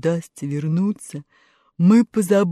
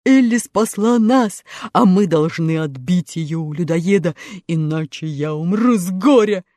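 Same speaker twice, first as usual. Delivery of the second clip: sad. A narrator's reading. Tin Woodman near tears.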